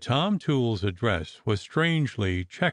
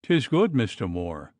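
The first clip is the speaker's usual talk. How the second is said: trembling cry. Acted. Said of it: "cried trembling little Missus Stirk".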